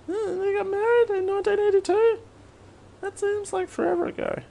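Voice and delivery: high, soft amazed voice; high surprised voice. Real, not acted. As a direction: squeak it out in disbelief.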